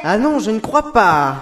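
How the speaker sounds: killer voice. Acted. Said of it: "pourquoi tu prends cette voix de tueur".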